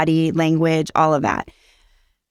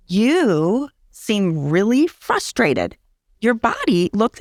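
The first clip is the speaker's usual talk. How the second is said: put-on very slow, gentle naming of a child's frustration; calm parent demo; 2 semitones higher, much slower than usual. Shown as a demonstration. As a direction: talk slowly and soothingly to an upset child. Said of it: "you say to them".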